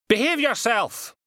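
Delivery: high, loud and slow order; stern command. Acted. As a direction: bark the order while pinning him. Constable restraining a struggling man.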